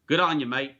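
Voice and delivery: playful Aussie accent demo; broad Aussie "mate"; Australian accent. Shown as a demonstration. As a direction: show off your Australian accent. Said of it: "That's a good Australian accent".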